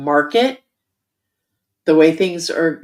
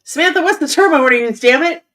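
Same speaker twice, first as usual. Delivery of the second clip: calling out; 7 semitones higher, 5 dB louder than usual. Real, not acted. Calling out to Samantha offscreen.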